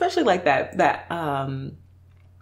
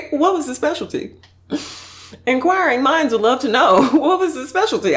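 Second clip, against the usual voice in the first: eager curiosity; 8 semitones higher, 4 dB louder than usual. Real, not acted. Reacting eagerly to a clip.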